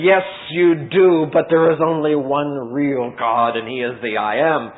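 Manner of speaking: slow, steady and sure; lightly voiced calm Moses. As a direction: settle it calmly, no doubt. Moses calmly answers Pharaoh.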